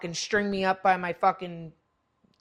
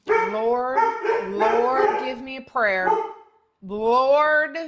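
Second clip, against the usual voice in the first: exasperated plea; 3 semitones higher, 7 dB louder, much slower than usual. Real, not acted.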